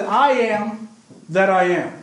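slow, weighty declaration as God; God's declaration. Acted. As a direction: state it slowly, as God speaking. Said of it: "And God said".

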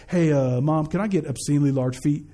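lightly voiced low, casual request to Mom; mock-plead with Mom in a low, even voice; unborn baby asking. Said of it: "he wasn't in his mother's uterus like".

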